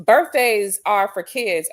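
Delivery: slow, mocking repeat; mock quote. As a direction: read his words back slowly. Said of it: "And Wayne the Pain says".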